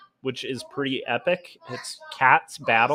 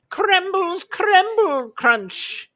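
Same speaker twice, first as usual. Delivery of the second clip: high, slow demonic voice; 5 dB louder, much slower than usual. Acted. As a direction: ham it up as a creepy demon host. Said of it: "that voice is too scary".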